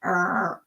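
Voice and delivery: low, half-hearted growl; failed animal roar. Shown as a demonstration. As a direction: attempt a roar and give up. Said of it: "My brain can't compute animals".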